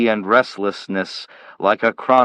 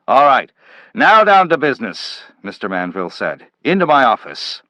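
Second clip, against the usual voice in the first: louder, higher brisk command; brisk take-charge; 3 semitones higher, 4 dB louder than usual. Acted. Manville taking Slade into his office, brisk and loud. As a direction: snap into business mode.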